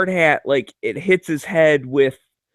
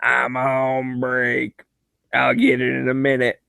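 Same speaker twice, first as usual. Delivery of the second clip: a slow, lazy drawl trailing off on break; a lightly voiced union worker; union guy impression. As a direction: play the slacker who shrugs it off. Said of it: "he used to come back and just be like".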